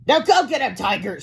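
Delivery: high, coy cheer. A narrator's reading. Woman sends hero to fight, coy and high. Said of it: "she said coyly".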